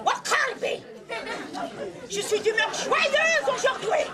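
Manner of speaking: high, loud, slow ogress declaring her joy; gleeful ogress voice, high and slow. Acted.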